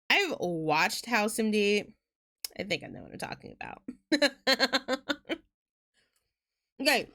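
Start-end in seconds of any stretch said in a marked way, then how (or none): 2.6-3.8 much lower, softer, fast mock know-it-all; deep, quick, smug mock boast. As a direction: toss it off like a smug self-made expert. Mock know-it-all after House.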